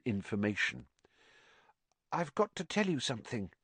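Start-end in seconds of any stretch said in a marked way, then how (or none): 2.1-3.5 mumbled. A narrator's reading. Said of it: "Ginny mumbled".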